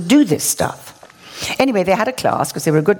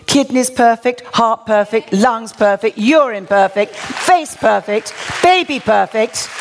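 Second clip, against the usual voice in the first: triumphant list; 3 semitones higher, slower than usual. Real, not acted. Triumphant listing of healed organs.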